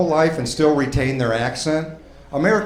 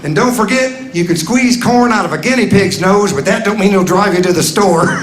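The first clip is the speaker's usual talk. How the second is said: put-on higher, folksy old-man voice saying nonsense; mock old-timer wisdom; 5 semitones higher than usual. Old man messing with listeners, higher folksy voice. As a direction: play a rambling grandpa spouting nonsense.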